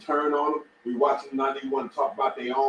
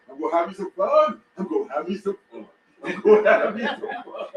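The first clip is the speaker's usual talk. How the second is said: Bill Duke quote. Retold or imitated. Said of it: "what Bill Duke saying".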